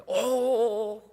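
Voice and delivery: long drawn-out startled "oh". Acted. Onlookers shocked by Balak's fury, startled. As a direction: gasp it out like a startled crowd. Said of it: "깜짝 놀래요, 사람들이".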